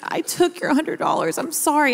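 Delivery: high, mock-tearful little confession; lightly acted tearful daughter; imitated crying child. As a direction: voice a child confessing through pretend tears. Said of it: "finally she starts crying".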